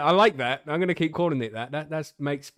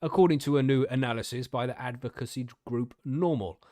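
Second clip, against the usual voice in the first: news article reading. Real, not acted. Podcaster reading cannabis research news to co-hosts, article-reading voice. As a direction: read the research report out to listeners.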